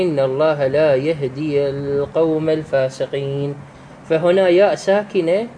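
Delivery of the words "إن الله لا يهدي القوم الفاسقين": level-toned recitation, "ii" of يهدي stretched; elongated vowel. Shown as a demonstration. Teacher showing how to read it, long "ii" in يهدي. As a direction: recite evenly, holding the end of يهدي. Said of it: "يعني من تقرأها، تقرأها".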